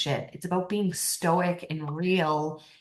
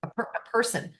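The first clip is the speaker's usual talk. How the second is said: playful take on a woman sure of herself; imitating a confident woman; 4 semitones higher, faster than usual. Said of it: "they're like".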